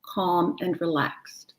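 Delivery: slow, soothing question; gentle affirmation; calm affirmation. Shown as a demonstration. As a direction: say it as if already calm. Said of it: "one I talk to everybody".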